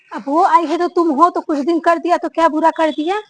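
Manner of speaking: loud, indignant scolding; scolding mother-in-law. Acted. Mother-in-law loudly scolds elder bahu for grudging help. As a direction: scold her for complaining about the new bride.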